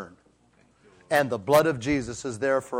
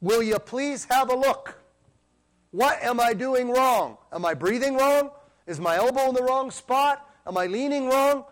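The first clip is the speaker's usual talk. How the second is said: pleading prayer; 7 semitones higher than usual. Retold or imitated. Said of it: "like David said".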